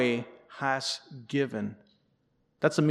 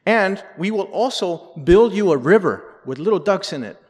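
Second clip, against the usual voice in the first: louder, higher mock stump speech; hammed-up politician's pledge; campaigning mayor; 4 semitones higher, 7 dB louder than usual. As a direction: declare the promise undaunted to the crowd. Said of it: "he's giving his speech".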